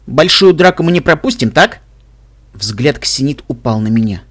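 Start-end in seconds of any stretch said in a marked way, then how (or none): 0.1-1.8 raised, hopeful question. A narrator's reading. Реджи asks about joining the big fight, hopeful. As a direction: lift the pitch, angling for a yes. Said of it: "с надеждой в голосе".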